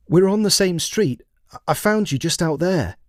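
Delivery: put-on a scared teenager stammering an explanation; nervous boy. A narrator's reading.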